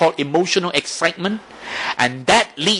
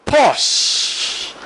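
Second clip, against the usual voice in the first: a single drawn-out whispered "Pause." with a falling end; 7 semitones higher than usual. Shown as a demonstration. Teacher modelling the pause step, whispered. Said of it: "You can learn to pause".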